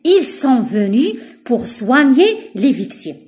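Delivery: very slow word-by-word reading; teacher dictating slowly; slow dictation. Shown as a demonstration. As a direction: dictate the sentence slowly to pupils. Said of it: "reads example sentence slowly".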